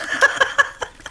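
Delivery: a short breathy chuckle; quiet laugh to herself; soft laugh. Real, not acted. Amused by Mary's comment, soft chuckle. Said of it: "I'm laughing".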